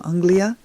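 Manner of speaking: "Anglia", the Hebrew way to say England, clear and slow; "Anglia" pronounced the Hebrew way for learners; Hebrew pronunciation. Shown as a demonstration. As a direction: say "Anglia" as AHNG-lee-ah, stress on the first syllable. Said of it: "That's how they say it in Hebrew".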